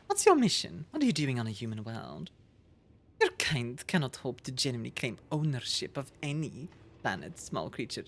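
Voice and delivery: lightly voiced game characters, measured and grave; voicing game characters. Streamer voicing the dialogue to chat, in a measured low tone. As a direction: read the alien's lines with cool disdain.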